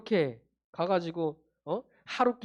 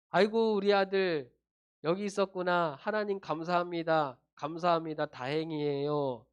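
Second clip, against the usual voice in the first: relieved parent; 3 semitones lower than usual. Acted. Parent who has found the lost son, mildly relieved and thankful. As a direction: sigh it out with gentle, mild relief.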